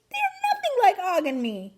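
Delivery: lightly high hamster voice. A narrator's reading. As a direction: keep the small hamster sound. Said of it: "I squeaked".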